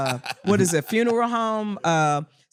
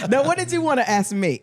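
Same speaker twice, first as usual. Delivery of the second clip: laughing; 8 semitones higher, 4 dB louder, faster than usual. Real, not acted. Recovering from laughter.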